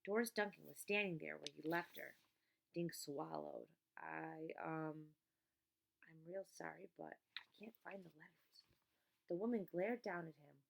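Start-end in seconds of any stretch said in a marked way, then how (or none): 4.0-8.6 nervous apology. A narrator's reading.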